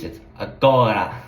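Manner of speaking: agora in Portuguese, stress on the go. Shown as a demonstration. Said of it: "in Portuguese".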